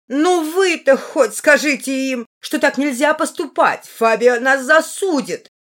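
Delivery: high, loud, drawn-out pleading; hysterical parrot. A narrator's reading. Parrot appealing to the brothers, high and hysterical.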